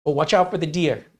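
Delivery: friendly warning in a put-on Midwest accent. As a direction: imitate a Wisconsin goodbye, accent and all. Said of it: "the way he's talking".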